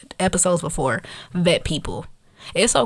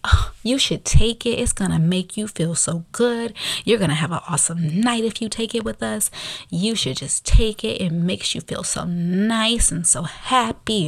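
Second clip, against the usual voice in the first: candy commercial; 3 semitones higher than usual. Retold or imitated. Woman talking her new acquaintance into a pill, candy-commercial pitch. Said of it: "sounded like a damn candy commercial".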